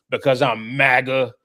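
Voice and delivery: a sneering imitation of a rock singer; mocking the way he said it. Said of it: "the way he said it".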